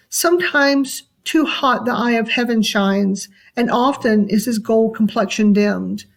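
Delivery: measured, lightly expressive poetry reading; poem read for meaning. Shown as a demonstration. Teacher reads a Shakespeare sonnet to students, lightly expressive. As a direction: read the sonnet as meaningful speech, pausing at line ends. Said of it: "once you read it like that".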